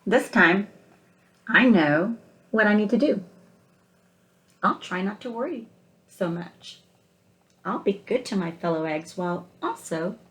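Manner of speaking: picture-book read-aloud, gentle and unhurried; story narration. Acted. Teacher reading picture book aloud.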